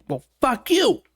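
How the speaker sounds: high, snippy mock comeback; hammed-up defensive partner; mock retort. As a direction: snap back, insulted, in a silly voice. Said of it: "they feel attacked and they're like".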